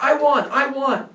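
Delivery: high, loud, drawn-out crowing; imitated victory boast. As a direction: crow like a boy claiming victory. Rival boy claims victory.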